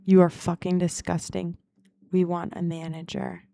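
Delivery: retold angry complaint, getting loud on the second line; a hint of a disgusted customer. Customer complaining about the server biting her nails, mock angry. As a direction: snap it back like the offended couple. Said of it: "they were like".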